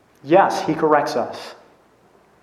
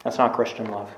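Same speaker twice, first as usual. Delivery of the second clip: softer repeat; 6 semitones lower, 6 dB quieter than usual. Shown as a demonstration. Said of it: "repeated softer".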